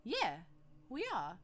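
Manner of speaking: chirpy proud fisher lad; lightly voiced cheerful fish boy; outgoing fishman.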